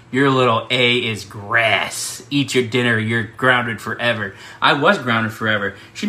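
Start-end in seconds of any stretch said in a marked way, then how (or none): 0.1-4.3 slow, low stern warning; a hint of an angry mother grounding her son; stern mom. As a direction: lay down the law slowly. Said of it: "she looks me dead in the eyes and she goes".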